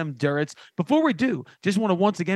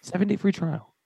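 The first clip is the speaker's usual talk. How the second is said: sponsor ad read. Acted. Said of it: "This is more of the off-the-cuff one".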